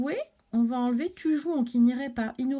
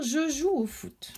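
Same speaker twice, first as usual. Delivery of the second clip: petit garçon; 5 semitones higher, slower than usual. Acted. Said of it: "le petit garçon Samuel commence par dire".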